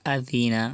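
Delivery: আযিনা with a soft dh sound, not a hard z; the zal in আযিনা said soft like th in this. Shown as a demonstration. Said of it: "জাল নরম হবে". (আযিনা, জাল নরম করে)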